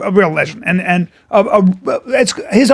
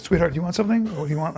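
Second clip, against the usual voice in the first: soft mimicked murmur; cooing sweetheart; 2 semitones lower, 10 dB quieter, much faster than usual. Jimmy pretending they're a couple at the bar, cooing sweetheart. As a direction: lean in softly, like a partner. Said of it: "Like that".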